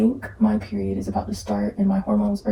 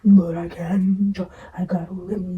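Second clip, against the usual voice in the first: whisper; slower than usual. Shown as a demonstration. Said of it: "whispered take".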